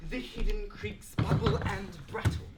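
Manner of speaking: deliberate, full-voiced repeat through to BRATTLE; defiant recitation. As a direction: recite it firmly without hesitating, landing on BRATTLE. Defiantly repeats the mocked line.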